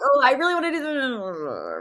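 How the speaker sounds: high, loud gushing eagerness; bright rush of wanting it; excited voice. Retold or imitated. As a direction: squeal it like you can't wait. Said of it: "You can, like, hear it in your voice".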